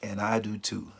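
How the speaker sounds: gentle, sincere reassurance; comforting a friend who lost someone; compassionate. Shown as a demonstration. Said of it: "you should say".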